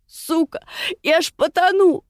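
high, strained cry while drowning; animal-like roar. A narrator's reading. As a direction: bellow it like a cornered animal. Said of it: "каким-то уже не своим голосом, по-звериному, гаркнула".

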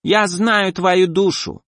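sickly sweet slimy monster; squelching flesh creature. Acted. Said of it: "приторно чавкало существо".

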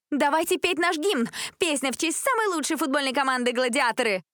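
high, rousing announcement; excited shout. A narrator's reading. Cheer captain starting the team anthem, shouting. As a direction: cry it out to rally singers. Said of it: "выкрикнула Джессика".

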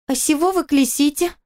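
put-on high lisping child's voice; little girl. Little daughter asking why the grown-ups shout. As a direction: ask like a small curious girl.

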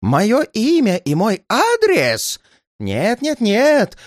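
high, drawn-out outraged cry; agitated old man's high outburst. A narrator's reading. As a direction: cry out in alarmed disbelief. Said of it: "Старик так и закричал".

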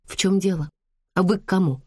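ordinary delivery, nothing marked

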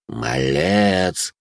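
gritted-teeth snap; through gritted teeth. A narrator's reading. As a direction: spit it through clenched teeth. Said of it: "процедил сквозь зубы".

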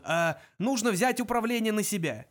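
high-pitched, urgent exclamation; crying out. A narrator's reading. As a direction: blurt out the plan. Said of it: "вскричал он".

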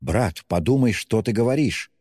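acted flash of temper, pitch rising; hot-tempered. A narrator's reading. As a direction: flare up at a brother. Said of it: "вспыльчиво начала была Авдотья".

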